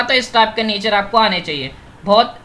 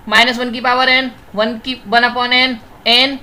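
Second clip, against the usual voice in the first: very slow, word by word, so students can write it down; slow dictation; slower than usual. Real, not acted. Teacher dictating a sequence formula to his online class, very slow. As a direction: dictate each symbol slowly and evenly.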